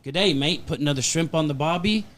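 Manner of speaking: imitating an amateur Australian accent. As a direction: lightly mimic a stock Aussie catchphrase. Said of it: "can you do an Australian accent".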